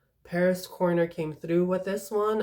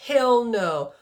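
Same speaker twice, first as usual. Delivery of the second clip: hell no, higher and louder; emphatic outburst; 6 semitones higher, 7 dB louder than usual. Real, not acted. Reviewer telling viewers it is not Father Figure, loud outburst. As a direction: shut the claim down hard. Rejects the dupe claim.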